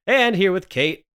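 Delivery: hoarse from a cold; croaky, under the weather; sick voice. Real, not acted. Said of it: "You're not sounding too good there".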